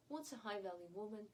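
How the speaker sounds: ordinary delivery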